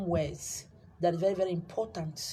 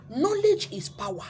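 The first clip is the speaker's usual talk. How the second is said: much higher and louder, Knowledge thrown out; loud proclamation; 10 semitones higher, 5 dB louder than usual. Shown as a demonstration. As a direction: proclaim it like a rallying cry. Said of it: "repeats it as a slogan".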